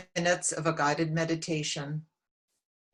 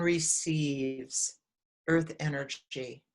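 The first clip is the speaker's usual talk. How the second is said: calm, measured meditation guide with long pauses; unhurried guidance, phrase by phrase; guided meditation. Real, not acted. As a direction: lead them gently inward, leaving long silences between phrases.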